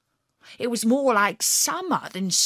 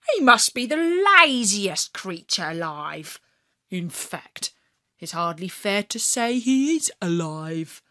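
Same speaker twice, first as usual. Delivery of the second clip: mocking. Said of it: "I said".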